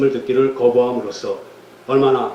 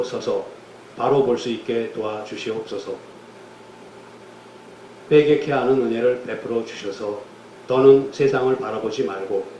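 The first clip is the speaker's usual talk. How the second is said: closing prayer. Real, not acted. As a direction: pray humbly before God, easing down at each close.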